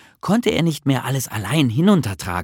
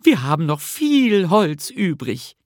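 mildly contented, higher character voice; 7 semitones higher than usual. A narrator's reading. Nisse surveys the wood left over, contented. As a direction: sound satisfied, pitched up. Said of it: "sagte Nisse zufrieden".

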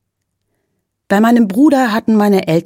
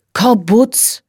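put-on a higher, know-it-all boy's voice; boy correcting; 4 semitones higher than usual. A narrator's reading. Brother correcting the parents on the place name, higher boy voice. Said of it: "korrigierte Lancelot".

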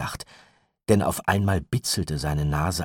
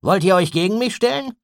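higher, louder gruff retort; 9 dB louder than usual. A narrator's reading. Gideon rebuffs Walkwell, gruff and loud. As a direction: bark the decision, brusque. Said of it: "sagte Gideon unwirsch".

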